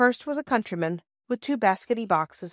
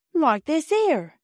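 slow, higher working-class porter voice; porter Perks; 7 semitones higher, 4 dB louder, much slower than usual. Acted. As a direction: drag it out like a chatty railway porter.

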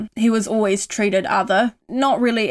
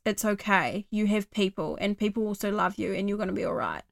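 softer and softer, fading to a hush; reassuring self-talk; 4 dB quieter than usual. Shown as a demonstration. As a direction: comfort a friend who feels alone. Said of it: "being like".

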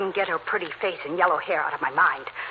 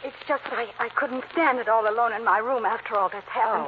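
nervous stammering; timid, shaky pleading; frightened; 5 semitones higher than usual. Acted. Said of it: "I'm so frightened".

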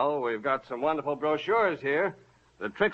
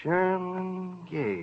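drawn-out musing, trying to place a name; slow pondering; 4 semitones higher, 3 dB quieter, much slower than usual. Acted. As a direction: say it slowly as if searching memory. Slowly recalling a customer's name.

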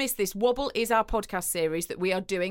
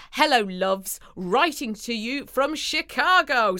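hammed-up Midwestern American, slightly Texan; attempted Midwestern accent; slower than usual. Podcast host reading a Chicago listener's message, attempted Midwestern accent. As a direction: put on an amateur Midwestern twang. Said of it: "So let's hear your best Midwestern accent".

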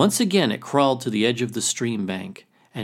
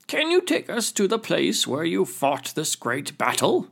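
crayfish chief voice; 8 semitones higher than usual. Acted. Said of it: "said the elder war chief crayfish".

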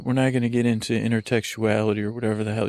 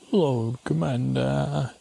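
drawn-out title call; 2 semitones higher, slower than usual. Acted. Calling the dog by his grand title, drawn out slowly. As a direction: intone it like a herald.

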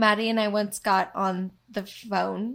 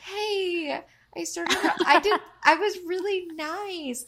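higher, laughing protest; imitating friend; 9 semitones higher, 5 dB louder than usual. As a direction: play the indignant friend, laughing. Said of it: "And she goes".

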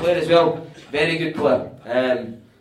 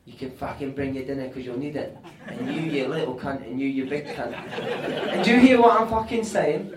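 John Sitton team-talk rant. Retold or imitated. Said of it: "he would do the full rendition".

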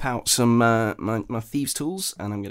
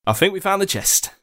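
telepathic message voice; 9 semitones higher than usual. Acted. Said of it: "send the exact same message psychically".

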